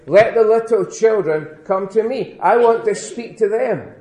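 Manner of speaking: put-on Jesus eagerly calling the little children over.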